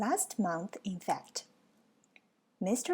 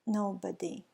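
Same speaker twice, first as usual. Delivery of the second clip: mournful; 2 semitones lower, 3 dB quieter than usual. Acted. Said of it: "in a mournful, melancholy voice replied".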